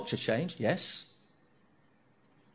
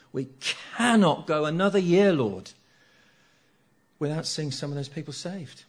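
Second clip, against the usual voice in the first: urgent prayer; 7 dB louder than usual. Acted. Praying plea to the Lord.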